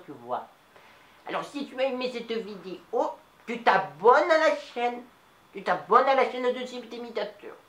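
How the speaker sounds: lightly voiced old Nice lady, chatty; a chatty old Niçoise telling a story to the audience; Mado. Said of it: "c'était Mado". (voix légère de vieille Niçoise bavarde)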